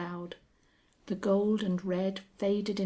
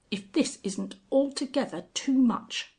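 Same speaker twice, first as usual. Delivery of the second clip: higher, louder indignant outburst; indignant emphasis; 6 semitones higher, 4 dB louder than usual. A narrator's reading. Sir John seeing the Angel in his wood, indignant. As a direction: make it an angry complaint. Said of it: "with immense emphasis".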